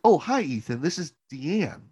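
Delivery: light imitation of a chirpy pastor; sweet pastor greeting. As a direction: put on the cheery caller. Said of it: "this lady on the other end is like".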